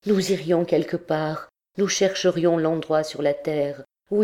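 lightly voiced tormented priest begging for love; impassioned, understated entreaty; lovesick priest, pleading. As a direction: plead with mounting ardour, then dream aloud of happiness.

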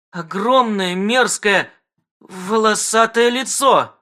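high, slow, disgusted telling; disgusted horror. Acted. Wife describes the face, high and disgusted. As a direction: dwell on each word in disgust. Жена в ужасе.

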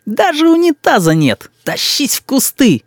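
put-on slow, high grumbling child; complaining boy. A narrator's reading. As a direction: list the grievances like a little critic. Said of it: "продолжал Рис критику". (мальчик ворчит о деревне)

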